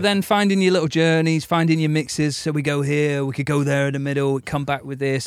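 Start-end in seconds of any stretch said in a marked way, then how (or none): 2.4-5.3 lightly put-on Ukrainian accent; a hint of Zelensky's accent; Zelensky impression. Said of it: "What accent are you doing?".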